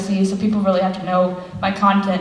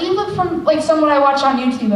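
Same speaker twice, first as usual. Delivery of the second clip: high fan voice; 6 semitones higher than usual. Retold or imitated. Retold fan recognizing her.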